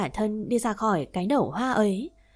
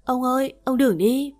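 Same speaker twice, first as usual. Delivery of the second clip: calling after grandpa; 4 semitones higher, 4 dB louder than usual. Acted. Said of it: "cúi tiếng gọi".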